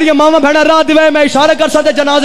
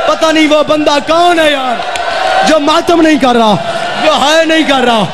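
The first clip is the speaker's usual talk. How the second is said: preaching shout. Real, not acted. Preacher rebukes the unmourning listener.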